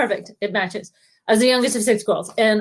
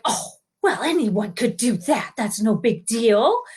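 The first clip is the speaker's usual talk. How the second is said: slow, drawn-out comforting sisters; soothing reassurance; slower than usual. Retold or imitated. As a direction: imitate sisters soothing her, word by word. Sisters reassure the sobbing sibling.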